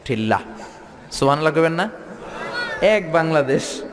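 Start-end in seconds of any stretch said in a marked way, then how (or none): 0.0-0.4 Chittagonian spelling drill. Retold or imitated. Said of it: "চট্টগ্রামে কলস রে কয় ঠিল্লা".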